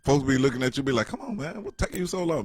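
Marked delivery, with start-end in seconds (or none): 1.1-2.4 mock impatience. Onlookers hurrying a slow old person.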